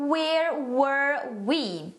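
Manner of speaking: slow, drawn-out example phrase; slow model phrase. Shown as a demonstration. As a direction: say it slowly and clearly for learners. (frase de exemplo, lenta e clara)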